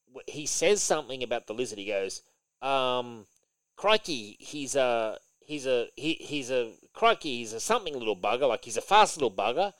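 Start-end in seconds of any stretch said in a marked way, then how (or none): 3.8-9.7 mock Kiwi accent. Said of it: "Morrison's got the Kiwi accent".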